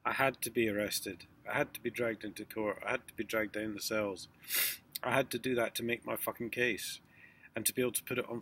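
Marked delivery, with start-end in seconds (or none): 0.0-7.0 had hit hard in every line; stress on had. Real, not acted. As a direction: lean on had each time. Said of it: "repeated emphatic list".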